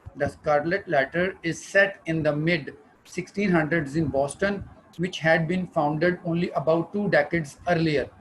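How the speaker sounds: slow reading aloud. Acted. Reads slide text slowly.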